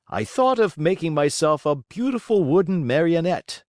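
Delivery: put-on high, eager old man's voice; eager Geppetto. A narrator's reading. Geppetto tells carpenter his idea, high and eager. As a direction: pitch it up, bursting with the idea.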